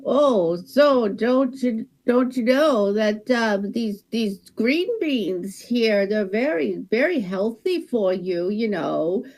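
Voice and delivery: lightly voiced Wisconsin cashier accent; a folksy Wisconsin checkout clerk, gently. Cashier chatting to a shopper in a light Wisconsin accent. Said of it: "that little accent ... Wisconsin".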